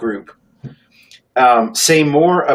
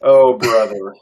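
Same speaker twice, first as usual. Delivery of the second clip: mock-exasperated, a bit louder; over-the-top eye roll; 5 dB louder than usual. Co-host announcing an eye roll at the praise, mock exasperation. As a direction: put an exaggerated eye roll into it. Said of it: "over-the-top eye roll".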